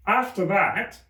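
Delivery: high, anxious voice; nervous Hatter. Acted. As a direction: explain timidly.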